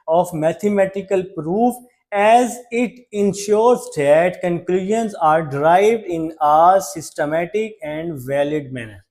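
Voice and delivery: reading the question word by word, slowly; slow dictation read. Shown as a demonstration. Teacher reads question six to students, slow and spaced. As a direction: spell the question out slowly for the class.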